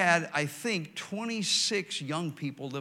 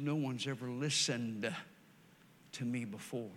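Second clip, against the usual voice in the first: tearful confession; 4 semitones lower, 7 dB quieter than usual. Retold or imitated. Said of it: "tears streaming down her face".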